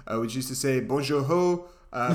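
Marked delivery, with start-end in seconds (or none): 0.8-1.7 Quebecois greeting. Shown as a demonstration. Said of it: "now it sounds a bit like this".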